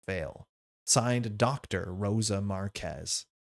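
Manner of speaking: measured reading of an expedition journal; journal narration. A narrator's reading. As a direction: read it out like a story's opening log. Reads out a journal entry.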